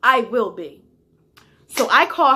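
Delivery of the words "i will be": loud, high, defiant comeback; challenging snap, voice raised; defiant retort. Retold or imitated. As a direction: throw it right back at her. Defiant reply to boss.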